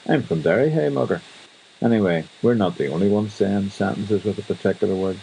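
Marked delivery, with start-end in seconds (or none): 0.1-1.2 put-on Derry accent, last words sliding high; Derry local claiming home, rising high on hey mugger. Derry person saying where they're from, Derry accent. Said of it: "They'll say something like".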